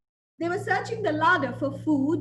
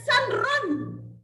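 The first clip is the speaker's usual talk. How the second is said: urgent warning; 8 semitones higher than usual. Acted. Mother rat urging escape.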